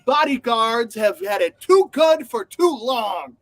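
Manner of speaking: slow, pompous proclamation; mock grand speech. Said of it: "she turned into this whole".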